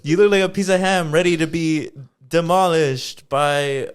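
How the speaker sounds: mock trash talk on a laugh; wrestling promo. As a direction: taunt like a wrestler cutting a promo. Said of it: "I'll cut a promo, Julie, on you".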